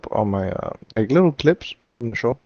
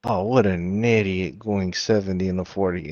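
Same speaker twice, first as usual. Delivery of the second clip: kid playing cop; 6 semitones lower than usual. Retelling a GTA clip of a kid cop, low grumble. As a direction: imitate a cop grumbling at a speeder, lower. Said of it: "He hit the kid go".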